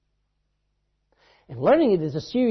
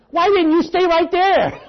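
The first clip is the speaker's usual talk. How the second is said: high, loud and slow with a laugh in it; a child's hurt complaint, half laughing; disappointed little boy; 11 semitones higher, 7 dB louder, slower than usual. Retold or imitated. Little boy chasing the preacher down the road, high and plaintive. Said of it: "He says".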